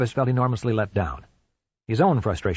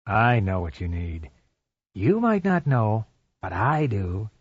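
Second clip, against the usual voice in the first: slow, creepy phone stalker; drawn out to unsettle her; menacing caller; slower than usual. Acted.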